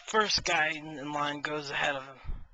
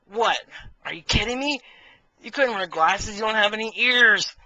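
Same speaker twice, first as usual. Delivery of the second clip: high, loud incredulous yell; exasperated shout at the boss; indignant outburst; 6 semitones higher, 8 dB louder than usual. Acted. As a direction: scoff at him loudly.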